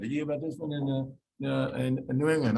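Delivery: mildly mock the patient's eager question. Patient quoting internet cancer cases.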